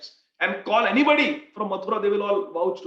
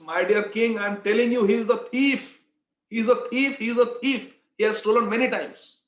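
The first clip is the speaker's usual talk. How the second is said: raised pitch, emphatic accusation; insistent accuser; 4 semitones higher, 4 dB louder than usual. Retold or imitated. Merchant swearing to the king that the man is a thief, insistent. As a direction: press the charge, hitting each repetition.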